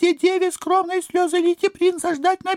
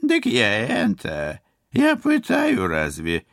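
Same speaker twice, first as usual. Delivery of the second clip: astonished. Acted. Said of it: "изумлённо вытаращилась".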